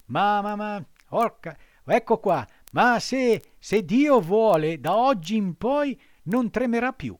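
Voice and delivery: put-on high, loud, eager boy puppet; bursting with pride; excited puppet. A narrator's reading. Pinocchio boasting to the fox.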